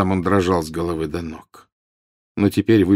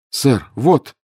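shout; 6 semitones higher, 4 dB louder than usual. A narrator's reading. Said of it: "крикнул Гарри".

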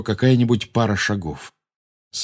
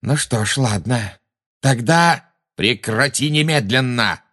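barked order; 4 semitones higher, slower than usual. A narrator's reading. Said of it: "рявкнул на неё Люциус Малфой".

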